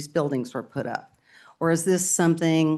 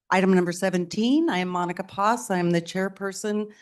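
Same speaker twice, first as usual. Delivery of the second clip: shallow breathing. Real, not acted. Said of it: "sorry, I'm out of breath".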